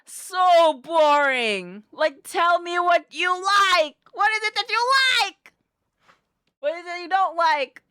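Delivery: mock frustrated shout; exasperated. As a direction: demand an answer from the date. Mock exasperated date talk.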